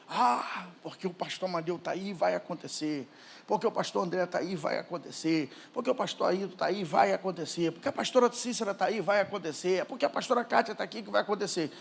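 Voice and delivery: soft, low string of excuses; hushed mock complacency. Imitating members who lean on pastors, quiet and low. Voices congregants relying on their pastors.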